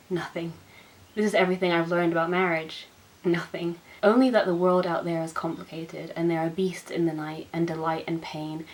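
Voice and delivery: tender measured poetry reading; poem reading. Acted. Reading a wedding poem to viewers, tender. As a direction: read it as if at a friend's wedding.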